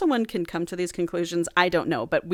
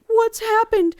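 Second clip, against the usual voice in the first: high, loud dramatic cry; mock alarm; 7 dB louder than usual. Retelling Leandros rushing in to her, mock alarmed high shout. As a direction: burst out in hammed-up concern.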